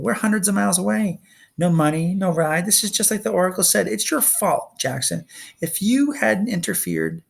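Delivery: high, fast, upset outpouring; upset, trembling. Acted. Clarice slumped on the pavement, blaming Percy, high and fast. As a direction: rush it out, close to tears and blaming. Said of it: "Her voice trembled".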